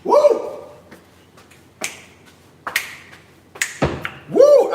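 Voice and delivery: very high, loud joyful woo; excited whoops. Real, not acted. Cook thrilled by his recipe, loud high whoops. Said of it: "I done got excited".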